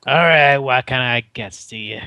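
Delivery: lightly voiced Brooklyn innkeeper; Brooklyn accent. Innkeeper taking an order, light Brooklyn accent. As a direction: put on a Brooklyn accent, loud opening. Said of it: "Please give him a Brooklyn accent".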